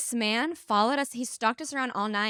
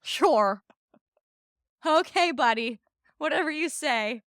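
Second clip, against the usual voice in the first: drawn-out, condescending agreement; mock-agreeable brush-off; sarcastic dismissal. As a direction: humor him without believing a word. Retells her dismissive reply.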